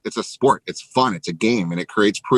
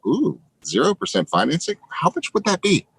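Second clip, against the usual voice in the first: high, eager mock temptation; curious, lightly mocked daydream; tempted inner voice; 6 semitones higher than usual. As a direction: play the tempted little voice in your head. Tempted inner voice imagining purchase.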